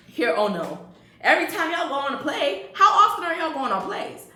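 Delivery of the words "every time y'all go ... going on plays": high laughing mock disbelief. Real, not acted. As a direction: scoff at it through a laugh, pitched up.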